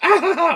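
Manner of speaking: high, loud cackling shriek; Salacious Crumb laugh. Acted. Puppeteer doing the creature's cackle for the documentary, high and loud. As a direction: let out the puppet's squealing cackle. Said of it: "I could do the laugh".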